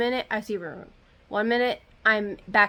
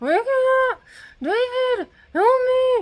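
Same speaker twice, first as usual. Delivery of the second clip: very high, strangled, drawn-out throat scream; 6 dB louder than usual. Retelling calling for help during sleep paralysis, imitating a scream in the throat. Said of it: "like that, but in my throat, screaming".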